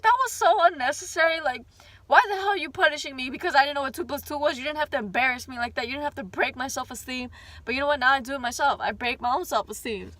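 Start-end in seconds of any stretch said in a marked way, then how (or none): 0.0-7.3 indignant rant. Retold or imitated. Adult venting at the teacher who shamed her, fast and indignant. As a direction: vent the injustice at her.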